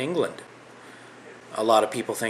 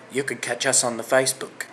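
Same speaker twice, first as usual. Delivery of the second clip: lightly put-on English accent; impression of English accent. Shown as a demonstration. Canadian imitating a viewer's accent, hammed-up English accent. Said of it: "here's my impression of your accent".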